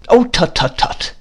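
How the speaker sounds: high-pitched, hurried tut-tutting. A narrator's reading. Miss Betsy to crying mother, hurried tutting. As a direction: tut briskly to stop the tears. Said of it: "said Miss Betsy in a hurry".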